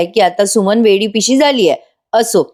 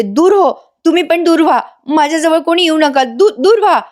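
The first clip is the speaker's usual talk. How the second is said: feigned madness; 8 semitones higher than usual. Acted. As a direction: play the madwoman driving people off. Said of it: "नाटक करायला लागते लगेच वेडेपणाचं". (वेडेपणाचं सोंग घेऊन किंचाळणे)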